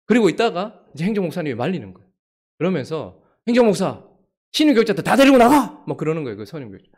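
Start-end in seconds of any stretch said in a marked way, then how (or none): 3.5-5.8 loud, high yelled order; angry shout. Retold or imitated. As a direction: yell at him to take everyone out. Senior pastor shouts orders in fight.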